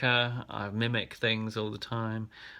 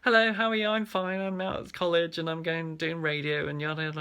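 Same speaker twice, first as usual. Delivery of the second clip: higher-pitched put-on posh accent; 8 semitones higher, 4 dB louder than usual. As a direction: chirp it in a mock posh accent, starting loud. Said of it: "You've gone all posh".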